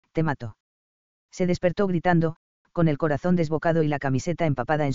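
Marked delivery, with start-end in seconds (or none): 0.1-0.6 hissing serpent dragon. A narrator's reading. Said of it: "la amenazó con voz sibilante".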